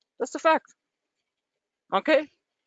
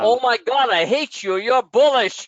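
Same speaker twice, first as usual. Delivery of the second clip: jokey mock outrage, a bit louder; mock exasperation; 4 semitones higher, 3 dB louder than usual. Host teases bullish guest with mock outrage. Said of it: "No, I'm just kidding".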